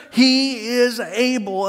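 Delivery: very slow, each word set down firmly; slow, sure confession of faith; firm declaration. Acted. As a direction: declare it with calm certainty. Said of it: "They are very clear".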